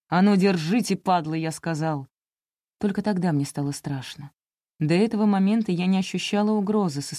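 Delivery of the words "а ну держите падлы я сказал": a lightly voiced menacing growl; bestial growl. Главарь рычит на приятелей, грубо и угрожающе. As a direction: bark the order at his mates. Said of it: "прорычал каким-то не своим звериным голосом".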